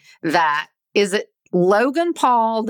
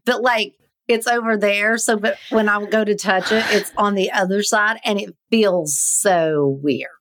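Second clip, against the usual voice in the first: stoned. Real, not acted. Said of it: "she's stoned".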